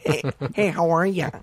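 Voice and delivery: light Minnesota-nice greeting; a lightly put-on Minnesota accent, chipper and high. Young Minnesota comic greeting a tough New York crowd, light Minnesota accent. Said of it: "I was a Minnesota boy".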